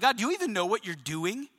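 understated challenge to God; doubting question. Acted. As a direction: question God with mild disbelief. Acting a doubting believer questioning God.

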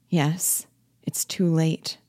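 hushed whisper of despair; whispered dread. Acted. Wife echoes her husband's words to herself, a whisper of dread. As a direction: breathe it out, barely voiced.

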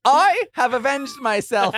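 high, loud, slow proclamation; character voice. Acted. Player repeating his warrior's victory line in voice. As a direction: declaim it grandly in character. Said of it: "Is that what that character sounds like?".

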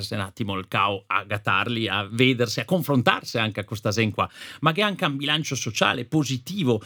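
Trentino valley dialect; Fiemme dialect. Real, not acted. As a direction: speak in the local Fiemme dialect. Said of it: "potes parlare in dialetto".

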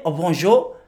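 lightly mimicked French accent; French greeting in an imitated accent. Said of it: "little French kid in his accent".

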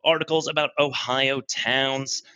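a hint of a cheesy host, slowing at the end; lightly hammed-up presenter patter; put-on podcast host voice. The speaker lists podcast topics in a lightly put-on host voice. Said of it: "this is not my real voice".

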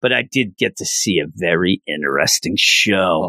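low, smooth gentleman's voice; mock suave hero. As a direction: purr it like a dashing masked hero. Tuxedo Mask voiced suavely.

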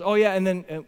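offhand mumbled wrap-up, deflating as it goes; imitating a casual, underwhelming ending; anticlimactic retelling. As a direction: trail off like a mock afterthought. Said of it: "He goes".

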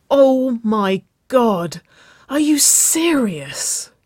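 high, drawn-out, breathy disbelief; stunned hiss. A narrator's reading. Nicole to her girlfriend in that dress, stunned hiss. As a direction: hiss it slowly, pitched well up, in stunned disbelief. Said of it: "Nicole hissed".

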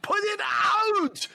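Arnold shouting. Shown as a demonstration. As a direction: yell for the extinguisher in a hammed-up Arnold voice. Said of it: "So that's just my demonstration".

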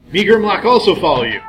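loud dumb brute voice; eager dim creature tagging along; monster voice. Acted. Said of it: "another voice saying".

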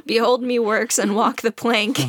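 hammy pirate captain. Pretend. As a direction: play a swaggering pirate. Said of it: "They both sound like a pirate".

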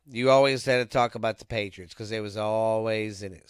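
talking through a burp; a burp breaks the words; burp mid-sentence. Real, not acted. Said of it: "Sorry for that burp in the middle".

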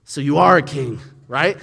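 loud triumphant "Aha!"; gotcha aha. Retold or imitated. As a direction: catch him out, pleased. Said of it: "his response to that is".

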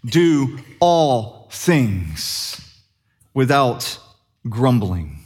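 "Do all things without grumbling" drawn out word by word, long pauses; very slow ironclad wording. Retold or imitated. Paul dictating to lawyers, very slow and weighted. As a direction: lay it down like a lawyer's clause. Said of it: "You gotta say".

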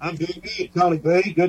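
distant, like through a wall; far away. Real, not acted. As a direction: sounds far off on the line. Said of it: "you sound c-, cold, dark, and distant".

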